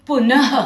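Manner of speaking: पुनः ending in a light puff of ह; breathed visarga. Shown as a demonstration. Teacher giving an example of visarga, breathed ह ending on पुनः. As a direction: release a little breath as a ह after पुन in पुनः. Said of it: "ह की तरह एक हल्की सांस छोड़ते".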